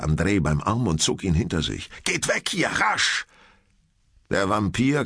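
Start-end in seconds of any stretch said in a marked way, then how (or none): 2.0-3.3 high-pitched, alarmed order; urgent warning. Acted. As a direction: get the pupils out of danger now. Teacher urgently sends pupils away.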